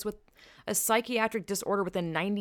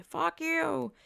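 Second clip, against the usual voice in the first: mock rude retort; 10 semitones higher than usual. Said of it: "normally they'd be like".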